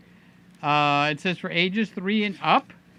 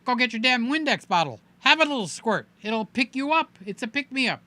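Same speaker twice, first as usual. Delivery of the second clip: imitating Norm scolding; 4 semitones higher than usual. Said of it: "he's going like".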